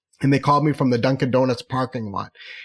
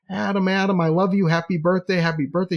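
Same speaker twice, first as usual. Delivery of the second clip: high-pitched, delighted imitation; gushing greeting; 5 semitones higher than usual. Dessert chef greeting a regular on his birthday, gushing. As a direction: gush over a dear friend in a lifted voice.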